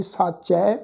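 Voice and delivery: ਸਾਚੈ ending in an open "ai"; dulavan vowel. Shown as a demonstration. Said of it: "ਚੱਚੇ ਤੇ ਦੁਲਾਵਾਂ ਦਾ ਪਾਠ ਹੈ ਜੀ". (ਸਾਚੈ, ਚੱਚੇ ਤੇ ਦੁਲਾਵਾਂ ਨਾਲ)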